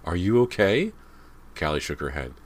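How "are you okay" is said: high, loud anxious mother; worried question. A narrator's reading. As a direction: ask urgently, alarmed for your child. Worried mother checks on children.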